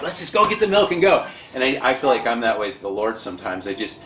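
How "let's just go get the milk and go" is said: mock weary dad. Dad answers son in story.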